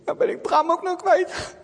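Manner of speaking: high, loud tearful plea; distressed sobbing voice; despairing cry. Acted. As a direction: cry out at a loss. Girl kneels in despair.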